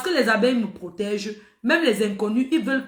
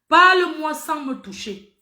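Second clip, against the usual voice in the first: firm request; 3 semitones higher, 3 dB louder, slower than usual. Retold or imitated. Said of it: "dit que, écoute".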